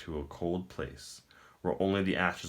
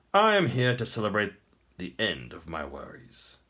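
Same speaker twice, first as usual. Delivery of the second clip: smug emperor; 2 semitones higher, 4 dB louder than usual. Acted. The Emperor taunts the captive prince, smug and grand. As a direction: speak down to a beaten foe.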